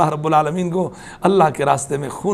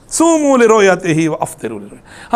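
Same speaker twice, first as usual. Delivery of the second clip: hadith recitation. Acted. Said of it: "آپ نے فرمایا".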